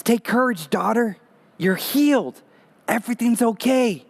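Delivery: tender reassurance. Retold or imitated. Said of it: "He says".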